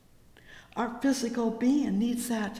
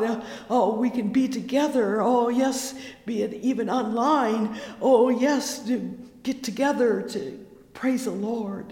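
loud, higher jubilant preaching; preaching at full force; 4 semitones higher, 6 dB louder than usual. Acted. Preacher rejoicing with his online church, loud and high. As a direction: lift the congregation up.

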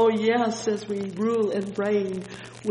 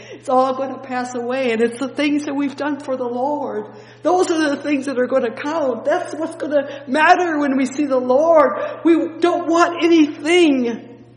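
building from loud to very loud, higher and faster; preaching at full force; 6 semitones higher, 11 dB louder than usual. Acted. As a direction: drive it home to the congregation.

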